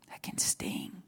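whispered echo of the line; soft whisper. Real, not acted. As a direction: breathe it out as an echo. Repeats phrase, now whispered.

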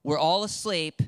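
half-hearted call through a door; mild mock yell. Homeowner to a late-night bread seeker, mild mock yell. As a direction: call it out a little, without really shouting. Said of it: "I will yell through the locked door".

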